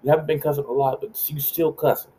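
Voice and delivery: high-pitched mom impression; imitated mom. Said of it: "She's like".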